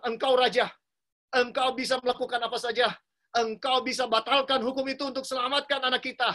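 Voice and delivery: angry wife. Retold or imitated. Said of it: "Istrinya marah".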